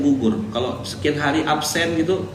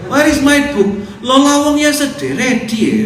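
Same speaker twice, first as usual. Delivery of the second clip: put-on high, loud, slow English in a thick regional accent; mock regional accent; 10 semitones higher, 7 dB louder, slower than usual. An ustaz mocks how students speak English with a thick accent. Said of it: "Itu namanya aksen".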